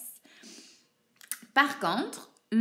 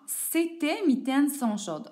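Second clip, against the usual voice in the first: slow test sentence; 4 semitones higher, slower than usual. Shown as a demonstration. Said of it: "par exemple".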